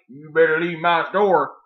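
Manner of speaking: lightly voiced low attendant, a touch menacing; gas station attendant. Attendant with a shotty ordering him out, low mock threat. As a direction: drop the pitch for an armed store clerk. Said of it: "gas station attendant comes out with a shotty".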